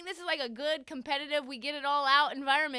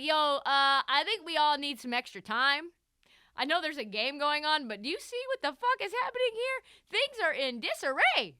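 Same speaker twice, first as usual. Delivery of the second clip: mock panic; 3 semitones higher, 5 dB louder than usual. Lowry voiced, panicked in a fight.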